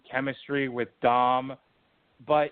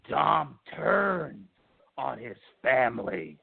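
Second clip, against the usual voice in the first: lightly put-on wrestling promoter voice; a hint of a showman's announcing, dropping on the last phrase; Vince McMahon voice; 2 semitones lower, slower than usual. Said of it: "I'm doing the Vince McMahon voice".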